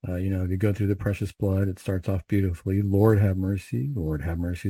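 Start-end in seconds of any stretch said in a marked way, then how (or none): 2.8-3.9 leader's call, firmly and slowly intoned; litany invocation. Shown as a demonstration. Priest showing how the litany starts, litany invocation. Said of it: "is a response". 3.9-4.7 lower, softer answering line; litany response. Shown as a demonstration. Priest answering his own litany call, litany response. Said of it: "is a response".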